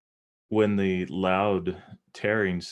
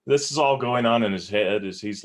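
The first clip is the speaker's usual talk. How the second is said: usual speaking voice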